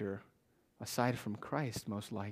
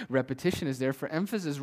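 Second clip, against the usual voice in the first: "Repetition is there for emphasis" said louder; emphatic repeat; 3 semitones higher, 6 dB louder than usual. Shown as a demonstration. Preacher repeating a point to the congregation, emphatic. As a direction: push "emphasis" harder, with more volume.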